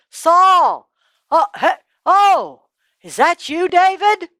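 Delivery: high, loud surprised cry; startled recognition. Acted. Saul startled to recognize David, high. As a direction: gasp as you realize who it is. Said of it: "Saul says".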